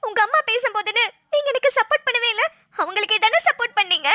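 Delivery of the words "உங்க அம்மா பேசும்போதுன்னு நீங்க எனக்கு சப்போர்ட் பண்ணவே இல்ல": crying. Real, not acted. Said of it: "அழுதுட்டே இருக்க".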